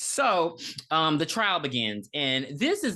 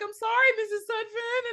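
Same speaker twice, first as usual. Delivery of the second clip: tag. Retold or imitated. Acting out dying man's plea.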